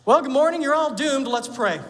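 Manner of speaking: bright pastor welcome turned grim joke; mock doom preacher. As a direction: play a cheerful preacher announcing doom. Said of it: "could you imagine if I got up this morning and said".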